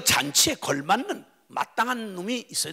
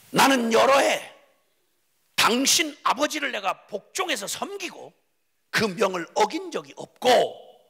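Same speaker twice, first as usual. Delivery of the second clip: 분노를 쏟는 형; 4 semitones higher than usual. Acted. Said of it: "막 분노를 쏟아부었습니다".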